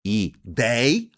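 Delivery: "Ideia" split into i-DEI-a; three syllables. Shown as a demonstration. Teacher counts syllables of Ideia for students, separated. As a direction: say "Ideia" in three spaced beats, last one rising. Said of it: "São três sílabas".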